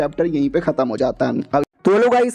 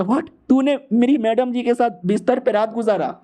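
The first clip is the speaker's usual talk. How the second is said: shocked outburst; 4 semitones higher than usual. Acted. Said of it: "Feng एकदम चौंक जाता".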